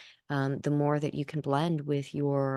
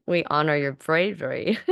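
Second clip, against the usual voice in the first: seance medium; 2 semitones higher, 3 dB louder than usual. Acted. Channeled entity speaking through Kim.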